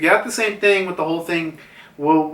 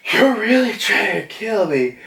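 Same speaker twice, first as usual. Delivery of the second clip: higher-pitched, mock-shocked protest; acted disbelief; 6 semitones higher than usual. Yamato to Kaido mid-fight, acted shocked disbelief. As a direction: protest as if stunned by the attack.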